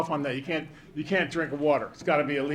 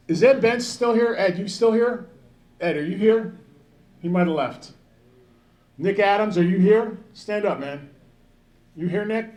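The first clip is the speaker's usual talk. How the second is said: raised voice, calling names across the room; calling out to the crowd; 4 semitones higher, 3 dB louder than usual. Real, not acted. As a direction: call out, looking for someone in the hall. Calling out absent friends.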